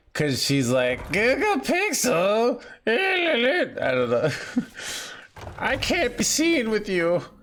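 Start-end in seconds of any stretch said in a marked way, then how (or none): 1.2-7.2 put-on very slow, drawn-out, swooping elderly woman voice. Telling chat his girlfriend broke up with him, seventy-year-old woman voice. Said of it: "my girlfriend in this scenario is like a seventy year old woman".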